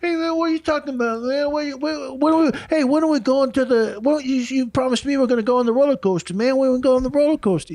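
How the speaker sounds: high, twisted character voice; gurning voice. Shown as a demonstration. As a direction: find a character through the mouth. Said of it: "So you might go".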